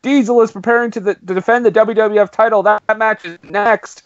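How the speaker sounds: imitated announcer read; Todd Pettengill. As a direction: announce the coming match like a TV interviewer. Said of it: "and Todd Pettengill says".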